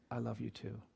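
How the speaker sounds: very soft, low, voiced near-whisper; imitating a child's hushed reply; retold whisper. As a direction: say it gently, as if into someone's ear. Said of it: "he whispered flawlessly in my ear".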